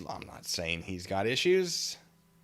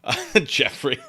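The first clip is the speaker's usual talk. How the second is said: laughing; 5 semitones higher, 7 dB louder, slower than usual. Real, not acted. Laughing while reading.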